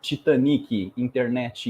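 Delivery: Brazilian accent with an E tacked onto word endings; English words in a thick Brazilian accent. Shown as a demonstration. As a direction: say it like a Brazilian, final E added. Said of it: "we put an E at the end of each word".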